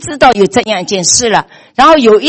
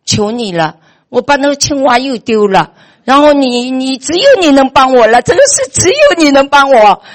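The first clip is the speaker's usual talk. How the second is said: imploring prayer. Retold or imitated. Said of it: "就祷，祷告了".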